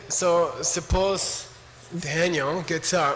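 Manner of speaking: slow, deliberate scene setting; dramatic storytelling. Shown as a demonstration. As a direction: draw it out like a storyteller. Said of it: "you gotta make this dramatic".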